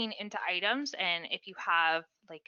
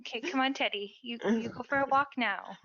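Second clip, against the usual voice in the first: real higher-pitched coaxing to a pet; coaxing a dog; 4 semitones higher than usual. Real, not acted. Owner to dog hiding under the desk, coaxing. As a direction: coax the dog out, amused.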